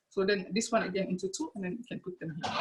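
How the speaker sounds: muffled behind a face mask; talking through a face mask. Real, not acted. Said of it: "it's a bit difficult to talk, in the mask".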